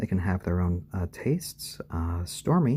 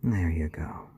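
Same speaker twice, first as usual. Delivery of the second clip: whisper; 4 semitones lower than usual. Real, not acted. Settling Stormy down, whispered. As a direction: hush it to the chick.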